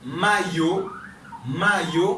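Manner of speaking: mayo sounded out with its consonant Y; demonstrated Y in mayo. Shown as a demonstration. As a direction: model the Y in mayo clearly. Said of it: "li pwononse kòm".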